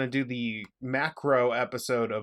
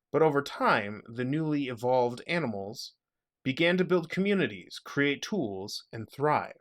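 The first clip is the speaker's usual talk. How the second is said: story narration; 2 semitones higher than usual. Acted. Reads prepared origin story narration.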